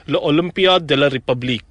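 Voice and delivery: lightly put-on French accent; attempted French accent. Shown as a demonstration. Host trying the festival's French name, attempted French accent. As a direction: have a modest go at French pronunciation. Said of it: "I'll try to do a French accent".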